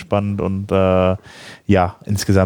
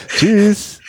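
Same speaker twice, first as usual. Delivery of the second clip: laughing; 11 semitones higher, 4 dB louder than usual. Real, not acted. Laughing goodbye at show end.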